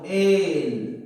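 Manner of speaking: "Entrégaselo" split as en, tre, ga, se, lo with long gaps; syllable by syllable. Shown as a demonstration. Teacher dividing "Entrégaselo" for the class, syllable by syllable. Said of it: "Sería así, ¿no?".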